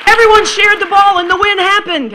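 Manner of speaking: hammed-up giddy schoolgirl voice; gushing teen. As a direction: read it like a bubbly teenage fan. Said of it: "she'd write something like".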